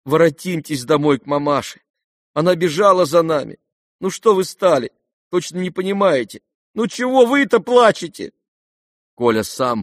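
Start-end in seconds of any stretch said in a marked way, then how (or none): 0.1-8.3 put-on high, urgent boyish coaxing; Kolya, pleading. A narrator's reading. Kolya urges his weeping father home, high and urgent. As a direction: son begging his father to come home.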